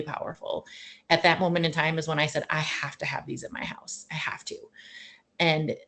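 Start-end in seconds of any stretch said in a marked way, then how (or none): 2.5-4.6 soft, near-whispered insistence; quietly desperate, retold plea; hushed resolve. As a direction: drop to an intense hush. Retold urgent resolve, voice drops.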